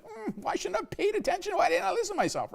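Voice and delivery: high-pitched, exasperated kicking yourself; mock self-reproach. Parent looking back on an ignored gut feeling, mock self-reproach.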